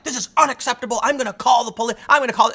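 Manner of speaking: high, indignant complaining voice; mock outraged woman. Woman threatening to call police, mock outrage. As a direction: imitate a shrill entitled woman threatening police. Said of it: "She was like".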